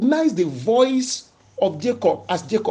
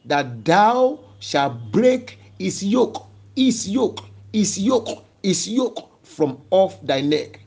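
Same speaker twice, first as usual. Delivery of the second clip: slow, emphatic declaiming with repeated phrases; scripture reading; slower than usual. Real, not acted. Preacher proclaiming the broken yoke, slowly declaiming. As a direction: hammer out the verse, drawn out slowly. Reads the verse, repeating its words.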